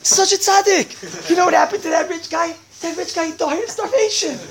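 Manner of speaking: high, loud sarcastic rant; mock indignation. Storyteller debunks Robin Hood, mock indignation. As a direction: sneer at the supposed hero, loudly.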